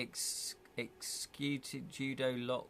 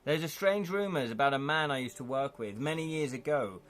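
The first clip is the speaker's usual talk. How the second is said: game master narration. A narrator's reading. Game master reading the scene to the players, storytelling voice. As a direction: set the scene for the players, even-paced.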